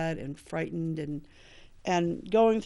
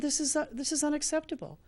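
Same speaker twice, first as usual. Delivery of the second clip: pitched way up in disbelief; exasperated, voice jumping higher; indignant disbelief; 9 semitones higher than usual. Retold or imitated. To the staff refusing detox, higher exasperated disbelief.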